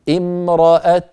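امرأة ending on a bare t, lips then rounded silently; drawn-out امرأة with a vowelless final t; stop with ishmam. Shown as a demonstration. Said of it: "نضم الشفتين من غير". (الوقف على امرأة بالإشمام، تاء ساكنة)

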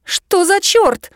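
high, slow, startled; the girl finds her phone has no signal, startled and high; alarmed surprise. A narrator's reading.

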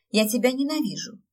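выпалить с досадой, громче; blurted in anger. A narrator's reading. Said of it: "выпалила я". (выпалила сгоряча)

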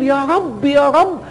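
pleading. Retold or imitated. Servant raising hands to God.

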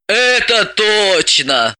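slow, gloating agreement. Acted. Elizaveta agrees slowly, gloating over Galka. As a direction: savour the dig at Galka. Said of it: "злорадно согласилась Бойцова".

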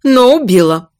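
icy verdict; cold, curt. Acted. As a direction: cut her off coldly. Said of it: "холодно отрезала мать".

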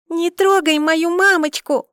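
put-on high, loud, slow little girl's yell; a little girl yelling at a man to leave mum alone; child's defiant cry. A narrator's reading. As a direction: shout it bravely like a small girl. Small daughter defends mother.

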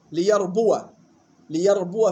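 ليربو said "li-yarbuwa"; fatha on waw. Shown as a demonstration. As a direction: finish ليربو on an open "wa". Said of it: "بفتح الواو". (ليربو بفتح الواو)

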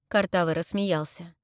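plain reading voice

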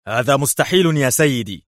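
high-pitched nervy objection; agitated. A narrator's reading. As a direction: cut in, edgy and vehement. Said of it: "قاطعه برونو في عصبية".

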